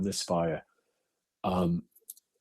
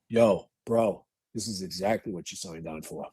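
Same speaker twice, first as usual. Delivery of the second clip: Patty Brown; 4 semitones lower than usual. Retold or imitated. Late friend speaking to him at a fire, low steady imitation. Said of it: "Patty Brown's voice came to me".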